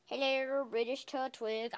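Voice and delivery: drawn-out put-on British hello; mock British accent. Vlogger seeking his friend, mock British accent. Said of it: "I just said something in British".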